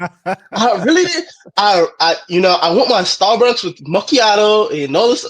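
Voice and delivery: mock Valley accent, dragged opening. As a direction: play up a Valley coffee-order voice. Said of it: "the Valley accent".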